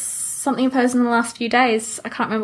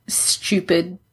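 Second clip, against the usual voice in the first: whispered aside; 2 semitones lower than usual. Real, not acted. Mocking teen drama, whispered aside.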